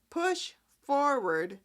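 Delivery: ordinary talk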